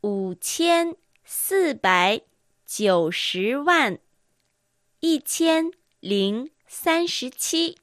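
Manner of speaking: very slow, number by number; slow dictation. Shown as a demonstration. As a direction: spell out 五千四百九十万一千零三十七 slowly. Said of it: "五千四百九十万千三十七は？".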